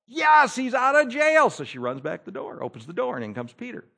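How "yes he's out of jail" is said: high, slow, emphatic insisting; insistent yes. Retold or imitated. Lady insisting to the doubting group that Peter is out, high and emphatic. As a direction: hammer it home with excitement.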